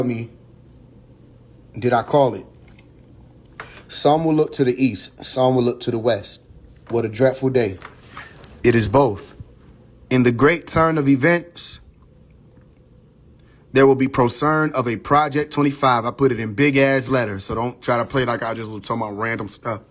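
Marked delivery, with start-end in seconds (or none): 3.9-9.4 measured, solemn reading of a prophecy; prophetic reading. Acted. Reading his book's prophecy to viewers, solemn. Reads prophecy excerpt from book. 13.7-16.0 measured, solemn reading of a prophecy; prophetic reading. Acted. Reading his book's prophecy to viewers, solemn. Reads prophecy excerpt from book.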